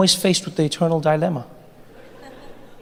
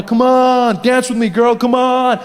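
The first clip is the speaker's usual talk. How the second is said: pushy creepy guy; 4 semitones higher, 4 dB louder, slower than usual. Acted. Creepy guy pushing her.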